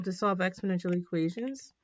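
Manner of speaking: restated with equations; the corrected take, said after the apology; corrected wording. Real, not acted. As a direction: fix the slip, now saying equations. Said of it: "I should say equations here".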